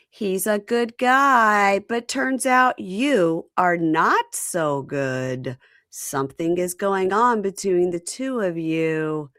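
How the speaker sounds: slow, deliberate accusation; lightly voiced stern man; accusing man. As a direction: lay it out slowly, stern. Beer Can confronting Laura.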